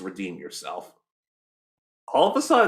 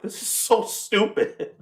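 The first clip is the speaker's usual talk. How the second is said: slow, voiceless mutter of disbelief; mock exasperated whisper; whispered aside; 9 semitones higher, slower than usual. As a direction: breathe it out like a private groan. Retold own reaction to silly scene.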